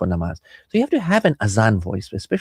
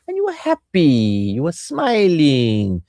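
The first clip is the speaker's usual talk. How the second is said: coaxing; 4 semitones higher, slower than usual. Shown as a demonstration. Acted coaxing of a moody spouse.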